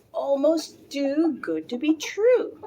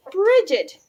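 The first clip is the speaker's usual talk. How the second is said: sharp call; 7 semitones higher, 8 dB louder than usual. A narrator's reading. Mother confronts her daughter.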